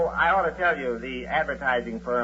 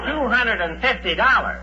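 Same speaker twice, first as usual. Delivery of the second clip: shocked disbelief; 8 semitones higher, 5 dB louder than usual. Acted. Husband shocked at tax bill.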